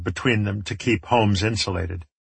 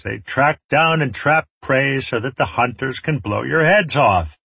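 lightly voiced gloating warlord; taunting villain; 4 semitones higher than usual. Enemy leader warns the trapped group about his rats, taunting.

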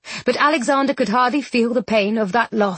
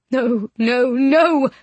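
desperate cry; 2 semitones higher, much slower than usual. A narrator's reading. Despair over still body.

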